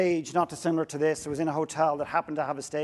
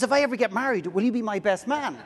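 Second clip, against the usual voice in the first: tearful stranger; 6 semitones higher than usual. Retold or imitated. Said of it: "He says".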